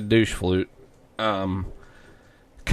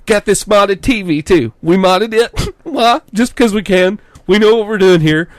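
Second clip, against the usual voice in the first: much higher, louder bragging bro voice; 8 semitones higher, 5 dB louder than usual. Retold or imitated. Imitating the clerk, high loud boasting bro voice. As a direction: boast about mods, hyped. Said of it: "He's like".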